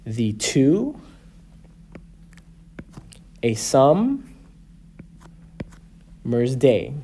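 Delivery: "The two, a summer's day" in pairs, long pauses, rising on two, sum, day; second syllable stressed. Shown as a demonstration. Teacher marking the meter of a sonnet, second syllable stressed. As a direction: measure out the pairs, lifting each second syllable. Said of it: "one unstressed syllable followed by a stressed".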